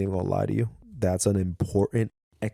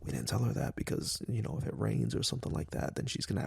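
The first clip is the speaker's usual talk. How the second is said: whispered urgent hush; 7 dB quieter than usual. Retold or imitated. Dad retelling how he and his wife hushed in front of their daughter, whispering. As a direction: hush it so the child can't hear. Parents hushing, secretly.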